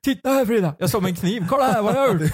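a jokey horror-movie maniac showing off his deed; mock killer. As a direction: play the proud murderer for laughs. Joking he played a killer.

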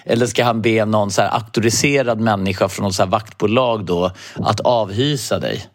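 ordinary talk

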